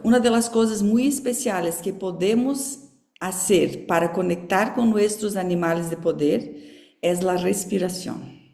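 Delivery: Portuguese-accented Spanish; careful Portunhol for a Spanish speaker; switch to Spanish. Real, not acted. Teacher restating for Filadélfia, in Portuguese-tinged Spanish. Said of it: "vou falar um pouquinho espanhol".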